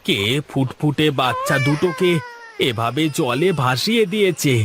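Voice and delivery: mild weeping over the abandoned twins; tearful. Acted. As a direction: voice catching with a touch of crying. Boatman finds babies adrift.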